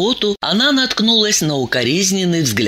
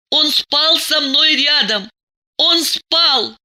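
raised, anxious inner voice; desperate thought; 10 semitones higher than usual. A narrator's reading. Diana fears for her husband, desperate. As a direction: reason anxiously in a higher pitch.

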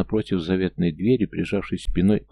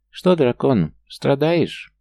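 high, thin, mocking gnome voice; 7 semitones higher, 4 dB louder, much slower than usual. A narrator's reading. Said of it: "тонкий насмешливый голос".

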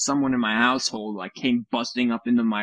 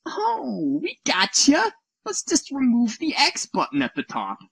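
much higher, smug sing-song company voice; mocking Microsoft; 14 semitones higher than usual. Host mocking Microsoft's fix, high smug voice. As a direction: play the smug company that found a trick. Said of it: "Microsoft is like".

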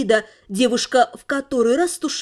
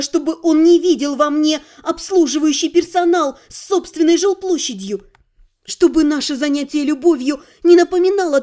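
impassioned plea. Acted. Oksana's passionate declaration.

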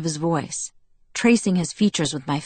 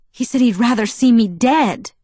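mild crack on the last word, dead; a touch of a break as the word dead lands; 6 semitones higher, 6 dB louder than usual. A narrator's reading. Girl to Edward about Jacob, voice breaking a little. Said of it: "My voice broke on the last word".

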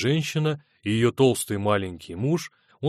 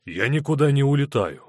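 louder, firmer refusal; raised voice; 5 semitones higher, 5 dB louder than usual. A narrator's reading. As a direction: raise your voice back at her. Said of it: "тоже повысил голос Рудольф".

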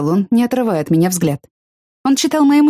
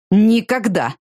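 growl; 4 semitones higher, much slower than usual. Acted. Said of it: "прорычал он".

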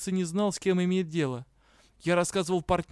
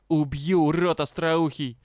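louder, slowed threat in a changed voice; eager threat; 5 dB louder than usual. A narrator's reading. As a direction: readily repeat the threat. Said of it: "с готовностью повторил кентавр". (кентавр охотно повторяет угрозу)

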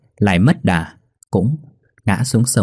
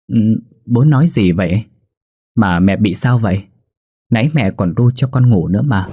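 lightly voiced little boy, a touch louder; innocent child; 2 semitones higher, 3 dB louder than usual. Boy answers his grieving father, lightly voiced and innocent. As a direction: sound puzzled and carefree like a small kid. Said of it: "Bé Tị chỉ cười cười mà nói".

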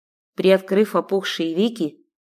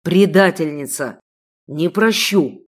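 angry accusation; 2 semitones lower, 4 dB louder than usual. Acted. Enraged sheikh.

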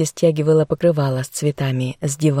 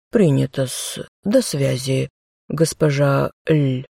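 low, slow, obsequious clerk; servile clerk voice; 3 semitones lower, slower than usual. Acted. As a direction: drawl it like a fussy servant. Clerk ending the call.

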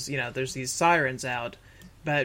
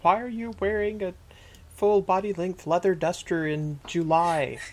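mock scolding; 4 semitones higher, 3 dB louder than usual.

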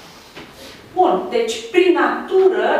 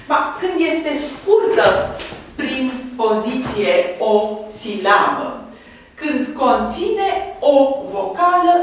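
slow dictation; slower than usual. Shown as a demonstration. Teacher dictating the rule slowly.

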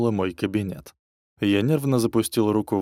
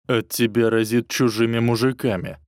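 growled; 3 dB louder than usual. Acted. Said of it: "прорычал".

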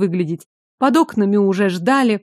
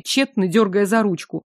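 ordinary delivery, nothing marked

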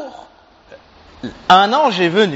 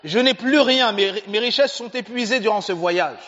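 pleading poor traveller; 4 semitones higher than usual. Acted. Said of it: "Il lui dit".

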